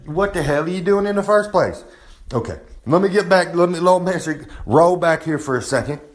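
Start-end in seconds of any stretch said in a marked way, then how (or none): 0.0-1.8 higher mock booker snapping; a hint of an annoyed booker; lightly voiced angry booker; booker scolding. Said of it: "he gonna tell you".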